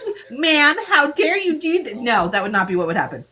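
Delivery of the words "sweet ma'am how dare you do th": mock sweet scolding. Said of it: "She's like".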